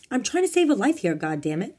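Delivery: high, loud outburst dropping at the end; angry shout. A narrator's reading. Bob shouting at Domingo while rushing to a rescue. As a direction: shout in indignant frustration. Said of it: "Italian Bob shouted at him".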